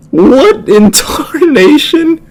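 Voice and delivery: high, slow hammed-up Southern "What in tarnation"; mock southern drawl. Reactor mocking the shoplifter, in a slow hammed-up Southern accent. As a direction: ham up a Southern twang through a laugh. Mocks her speech as southern.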